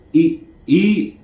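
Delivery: lightly voiced cellmate pressing food on him; a hint of a coaxing inmate; urging to eat. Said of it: "he was like".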